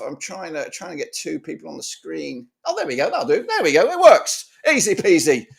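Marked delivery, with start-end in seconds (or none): 2.7-5.5 excited relief. Real, not acted. Relief as video call finally works.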